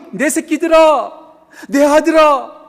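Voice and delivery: put-on loud, high, drawn-out calling to one's children; loving call. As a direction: call out lovingly to your little ones. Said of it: "사랑의 언어로 부르세요". (사랑으로 크게 부르듯)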